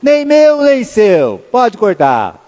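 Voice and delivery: mock shout, starting high then falling back; a hint of the other woman snapping; mild mock yell of the rival mother; retold yell. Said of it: "a outra gritou".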